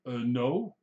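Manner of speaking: hesitant, polite little no; mock courteous customer brush-off; polite refusal. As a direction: decline politely with a hesitant start. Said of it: "if they're polite, they go, the most polite answer is".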